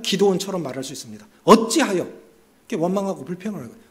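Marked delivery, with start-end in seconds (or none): none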